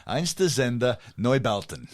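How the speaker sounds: slow, hammed-up German accent on the band name; mock Sergeant Schultz German accent, drawn out. Shown as a demonstration. Podcast host names a German band in a mock German accent. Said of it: "in my best Sergeant Schultz voice".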